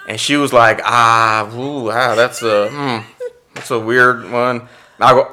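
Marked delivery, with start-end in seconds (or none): 0.8-4.7 awkward hesitation. Retold or imitated. Agent reacts awkwardly to monologue.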